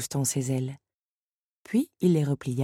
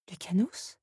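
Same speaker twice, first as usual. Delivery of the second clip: hesitant; 4 semitones higher, 4 dB quieter than usual. A narrator's reading. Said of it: "d'une voix hésitante".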